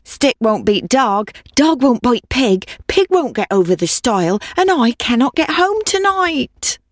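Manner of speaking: high sing-song storybook recital of a chain of woes; pleading old woman. Acted. Old woman begs the cat for help, high rhythmic plea. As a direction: recite it high and rhythmic, stretching the last words.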